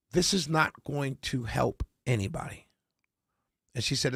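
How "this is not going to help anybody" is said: slow, softer, earnest retold warning; very sincere. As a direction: quote her gravely, in a hushed slow voice. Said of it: "she looked at me and very sincere".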